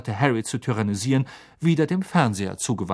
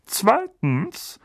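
stern uncle; 8 semitones higher than usual. A narrator's reading. Vernon's second rule.

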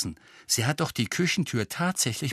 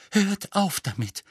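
higher, weary protest; faint voice; 10 semitones higher than usual. A narrator's reading. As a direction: plead weakly for them to stop. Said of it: "sagte Hermine mit matter Stimme". (mit matter Stimme)

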